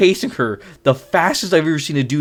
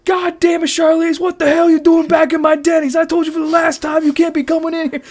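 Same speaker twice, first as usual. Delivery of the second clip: mock furious shout, much higher and louder; hammed-up roar at an intruder; deepest angriest voice; 5 dB louder than usual. The huge chef bellowing at the woman, mock furious shout. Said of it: "I hear the deepest and angriest voice".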